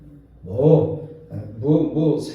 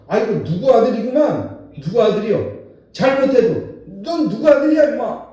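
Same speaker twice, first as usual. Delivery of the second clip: put-on loud, higher scolding old man; elder scolding; 5 semitones higher, 6 dB louder than usual. Elder on the street scolds a young man, loud and sharp. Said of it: "막 이러면서 혼을 내고".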